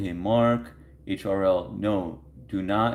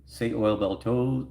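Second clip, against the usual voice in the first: slow tongue twister try; 3 semitones higher, slower than usual. Shown as a demonstration. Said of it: "Those are not real tongue twisters".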